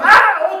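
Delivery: sharp, high, loud cry in place of a swear; loud frustrated yell. Retold or imitated. Pastor losing again at cards, loud frustrated yell. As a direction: blurt out an angry ah. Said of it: "pierdo y digo".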